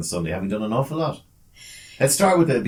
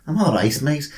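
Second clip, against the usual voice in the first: Liverpool accent; 6 semitones higher, 6 dB louder than usual. Shown as a demonstration. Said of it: "I managed to get a bit of a Liverpoolian accent".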